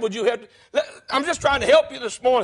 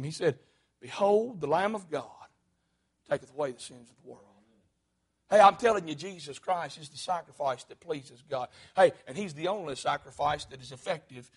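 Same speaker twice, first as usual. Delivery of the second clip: much softer, lower preacher's voice; hushed preaching; 7 semitones lower, 9 dB quieter than usual. Acted. Pastor to the congregation, hushed and low. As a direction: draw them in with a soft voice.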